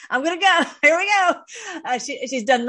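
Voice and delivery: high, loud, overcome squeal with a laugh; near tears. Real, not acted. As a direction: voice shoots up, about to cry. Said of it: "I'll try not to cry".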